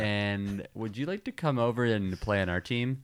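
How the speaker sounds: put-on a recruiter's London accent. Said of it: "That's a great London accent".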